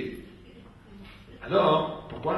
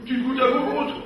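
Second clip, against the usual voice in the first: higher, put-on neighbor voice, laughing; voiced neighbor; 9 semitones higher, 5 dB louder than usual. Neighbor from the sixth floor brushing off the leak, mock casual. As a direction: play the careless upstairs neighbor shrugging it off.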